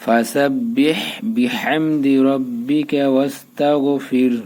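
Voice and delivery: slow chanted recitation; Quran recitation. Shown as a demonstration. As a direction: recite it slowly in tajweed style. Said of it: "এখন আমরা মিলে আরেকটা".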